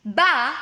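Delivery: "Ba" sounded out as a syllable on its own; "Ba" set apart for counting syllables; isolated syllable. Shown as a demonstration. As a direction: say "Ba" alone, as one separate syllable. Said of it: "let's count the syllables".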